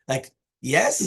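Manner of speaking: YES as a rhetorical question. Shown as a demonstration. Teacher showing a yes that means no, rhetorical. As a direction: punch "yes" as if meaning no. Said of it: "like, rhetorically".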